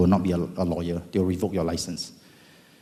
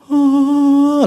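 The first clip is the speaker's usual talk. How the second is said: surprised ah; 12 dB louder than usual. Retold or imitated. Exclaiming in surprise.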